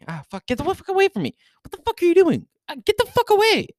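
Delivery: high, fast panicked shrieks at a bug; panicked bug yelp. Real, not acted. Streamer shrieking at a bug buzzing near him, panicked. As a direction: swat it away in real panic.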